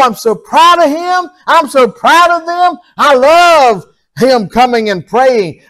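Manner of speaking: put-on God telling heaven about his child; a hint of a doting heavenly father; God the proud Father. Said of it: "I can just hear him saying".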